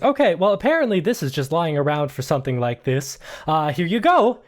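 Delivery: lightly voiced helper, lifted at start and end; hurried handover in character; Nancy. Game master voices Nancy handing hose.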